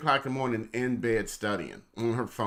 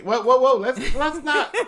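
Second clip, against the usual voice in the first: playful whoa; 13 semitones higher, 10 dB louder than usual. Real, not acted. Husband interrupts, teasing.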